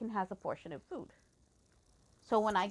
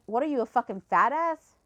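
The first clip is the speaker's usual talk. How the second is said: retold angry jab; indignant, insulting question; going off; 3 semitones higher, 3 dB louder than usual. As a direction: fling it as a mildly heated accusation. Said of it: "I just went off".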